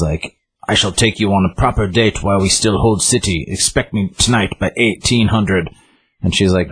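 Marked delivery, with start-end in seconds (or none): 0.7-5.7 lightly put-on Russian soldier voice; a hint of a Russian accent. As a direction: retell it as a stiffly formal Russian soldier. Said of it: "A Russian soldier walks up".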